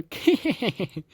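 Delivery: high, put-on little giggle; imitated creepy giggle. Showing what Maria does each time, creepy giggle. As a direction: mimic a creepy girl's giggle. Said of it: "every time Maria does her".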